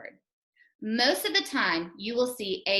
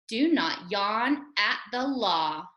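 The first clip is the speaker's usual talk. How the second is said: slow, word by word; deliberate, spaced-out reading; teacher's model reading; slower than usual. Shown as a demonstration. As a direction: model it slowly for children to repeat. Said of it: "then you can join with me".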